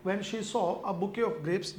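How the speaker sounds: reads the test sentence very slowly; slow sentence reading. Shown as a demonstration. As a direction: dictate it word by word. Reads the exam sentence aloud. (धीरे-धीरे वाक्य पढ़ना)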